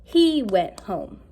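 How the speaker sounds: careful slow reading aloud. Shown as a demonstration. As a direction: read it out slowly, word by word. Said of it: "So now it says".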